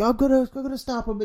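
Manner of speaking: hammed-up heroic vow; Gandalf resolve. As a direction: rush it out like a brave old wizard. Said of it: "I was like".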